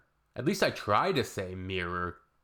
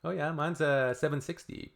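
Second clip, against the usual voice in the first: mock chatty small talk; 6 semitones higher than usual. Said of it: "I'm like".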